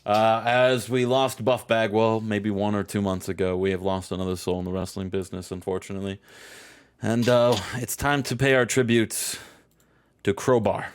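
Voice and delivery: subdued, measured obituary read; low-key tribute with halting pauses; mock news bulletin. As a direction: announce a loss with put-on solemnity. Reads a mock death bulletin.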